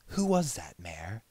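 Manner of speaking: whispered, awestruck; breathless whisper. Acted. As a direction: breathe the question. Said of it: "He took a shaky breath".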